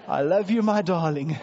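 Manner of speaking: resolute declaration. Pretend. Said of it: "you gotta wake up and go".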